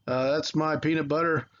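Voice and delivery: lightly voiced grumpy old senator; a mild hint of a cranky old Bob Dole; Bob Dole impression. Teacher to students, mimicking how Dole talked, a light old-man voice. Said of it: "He talked like this".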